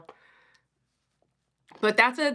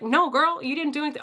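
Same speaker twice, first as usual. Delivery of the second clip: mock sassy girlfriend voice, a bit higher; sassy therapist; 6 semitones higher than usual. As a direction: play the therapist as a sassy friend. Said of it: "Obviously, she didn't sound like that".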